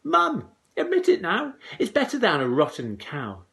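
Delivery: put-on high, loud triumphant boy; crowing boy. A narrator's reading. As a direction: crow it at mum. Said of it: "Young Jack cried".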